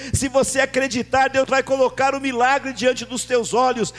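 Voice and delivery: loud, driving sermon delivery; fervent pulpit preaching; full-force preaching. Acted. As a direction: preach it out to the congregation.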